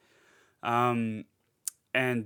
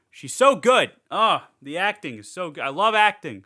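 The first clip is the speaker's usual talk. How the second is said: excited gushing; 5 semitones higher, 8 dB louder than usual. Real, not acted. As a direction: burst out high and loud in delight. Gushing over the actress's performance.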